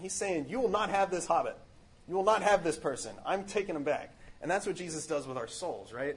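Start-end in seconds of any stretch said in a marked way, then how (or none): 0.5-4.1 firm, commanding claim; authoritative. Retold or imitated. A firm claim of authority over the willow, commanding. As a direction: lay down the law. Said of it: "he's exerting authority".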